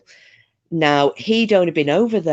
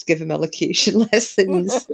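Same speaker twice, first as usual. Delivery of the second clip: laughing; 3 semitones higher than usual. Real, not acted. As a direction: laugh breaking into the punchline. Joking, laughs through the punchline.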